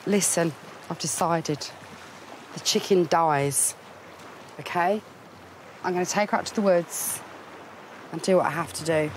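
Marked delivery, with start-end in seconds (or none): 0.1-5.0 slow, grave resignation; resigned. Real, not acted. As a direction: say it slowly, having decided. Grim decision announced.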